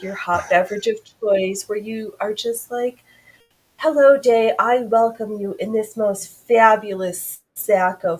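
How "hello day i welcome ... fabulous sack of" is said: theatrical welcome, opening loud then settling lower; lightly hammed-up lady of the house; grand morning greeting. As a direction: greet the day with mock grandeur. Acted morning greeting in frilly housedress.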